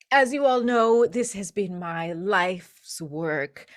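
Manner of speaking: a touch of grand showman; lightly theatrical jeweller; theatrical host. Acted. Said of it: "Forth says".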